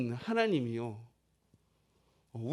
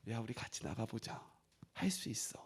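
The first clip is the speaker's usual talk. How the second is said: very soft, near-whispered reassurance; whispered encouragement; 6 semitones lower, 18 dB quieter than usual. Retold or imitated. God inviting the struggling to go on together, hushed and encouraging. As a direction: hush right down to encourage intimately.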